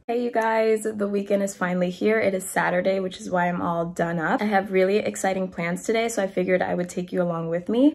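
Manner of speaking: stuffy, blocked-nose voice; congested voice. Real, not acted. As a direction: talk through a congested nose. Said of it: "as you can probably hear in my voice, I am a little congested".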